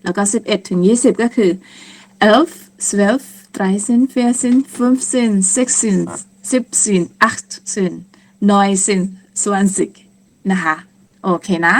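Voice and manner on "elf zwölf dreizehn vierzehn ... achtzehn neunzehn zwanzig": brisk run through the numbers; quick counting. Shown as a demonstration. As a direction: rattle off the count with few pauses. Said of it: "ถ้านับเร็วๆ ก็จะเป็น". (นับเร็วๆ รวดเดียว)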